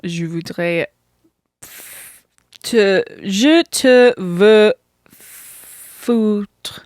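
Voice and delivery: slow, hesitant French. Shown as a demonstration. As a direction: sound out the French slowly. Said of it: "Speak French into the mic".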